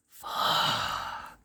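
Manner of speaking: long exhaled whisper; dismayed whisper. Real, not acted. Reader dreading what she must say, whispered. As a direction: breathe it out voicelessly, dismayed.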